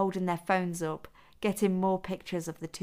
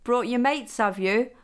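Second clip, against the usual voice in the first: rowdy lad; 7 semitones higher, 6 dB louder than usual. Acted. A rowdy boy teasing the group.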